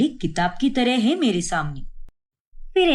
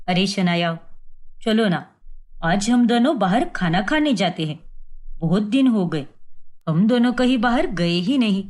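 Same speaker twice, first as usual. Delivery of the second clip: lightly voiced husband; 5 semitones lower than usual. Vipul voiced by narrator.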